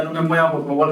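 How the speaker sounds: weak plea. Retold or imitated. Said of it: "decía".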